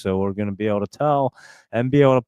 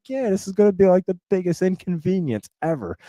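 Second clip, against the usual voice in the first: high, put-on whining voice; whiny complaint; 9 semitones higher than usual. Telling his wife about the hassle, in a mock whine. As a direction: whine like a sulky kid. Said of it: "I'm like".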